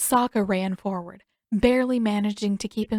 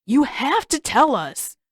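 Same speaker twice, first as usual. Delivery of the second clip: slow, louder demanding call; a lightly voiced insistent Sokka; 5 semitones higher, 5 dB louder, slower than usual. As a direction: call after her insistently. Sokka calling after her.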